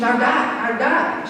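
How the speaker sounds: mildly excited, lightly voiced mom; a touch of proud excitement, repeating it. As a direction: mom boasting about the diet, mildly excited. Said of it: "She was all excited".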